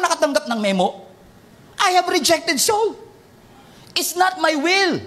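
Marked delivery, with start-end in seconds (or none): 1.8-5.0 higher and slow, solemn; lightly voiced divine decree; a hint of God's voice. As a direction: speak slowly as God declaring. Quoting God's words.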